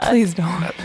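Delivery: unvoiced pleading whisper; whispered plea. Real, not acted. Uli begs friends not to use her name, whispering. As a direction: beg under your breath. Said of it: "whispered plea".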